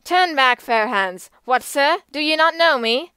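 furious challenge; cried out. A narrator's reading. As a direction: shout after him from horseback. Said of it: "and cried".

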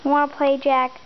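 loud, playful call to a pet; calling the dog. Real, not acted. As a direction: rouse the dog to play.

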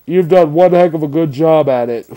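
talking while exhaling vapor; smoky breathy exhale speech; vapor in mouth. Real, not acted. Seen 0: vapor pours from mouth while talking after inhaling from device.

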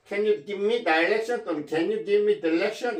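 "direction" said first with 다이 and then with 디 at the start; two pronunciations. Shown as a demonstration. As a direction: give both ways of saying "direction", slowly. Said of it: "두 가지 발음이 가능합니다". ("direction"을 다이렉션, 디렉션 두 가지로)

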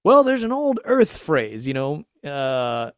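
mock-solemn Starfleet pronouncement, lifted high and loud; mocking Star Trek officer. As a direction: ham up a self-important captain quoting wisdom. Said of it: "they say stupid shit like".

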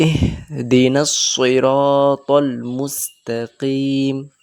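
very slow chanted recitation; tajweed-style chant; Quran recitation. Shown as a demonstration. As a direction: recite slowly and melodically. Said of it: "recites verse".

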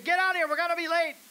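impatient husband. Retold or imitated. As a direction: bark at the family from the car. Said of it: "your husband honking the horn saying".

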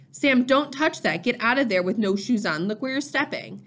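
urgent warning. Acted. Mother warning Sam away from broken glass, urgent. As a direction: caution a child sharply but without yelling.

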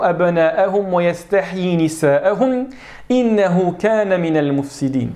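slow, measured recitation of the verse; Quran recitation. Shown as a demonstration. Teacher reciting an example verse to the class. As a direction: chant the verse slowly and evenly.

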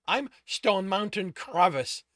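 slow, loud, weighty proclamation; solemn declaration. A narrator's reading. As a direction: announce the name with grand weight. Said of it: "said solemnly".

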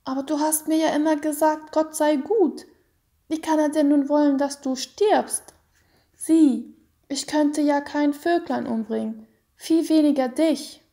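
put-on high, fast childish protest; boy objecting to his mother, high and urgent; pleading child. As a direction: argue like a bewildered little boy.

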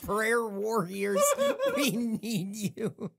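mock prayer plea. Echoing the mock Facebook plea.

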